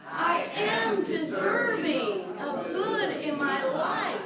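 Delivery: very slow, loud, every word weighted; slow affirmation. Shown as a demonstration. Minister leading the congregation's affirmation, slow and emphatic. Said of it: "Now say the next line".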